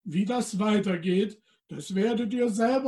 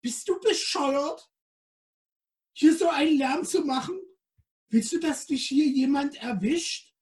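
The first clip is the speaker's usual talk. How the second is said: high little piping voice; squeaky creature; 6 semitones higher than usual. Acted. The little creature scolds Helene in a high squeak. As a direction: pipe it out like a tiny creature. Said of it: "Da piepste das kleine Geschöpf".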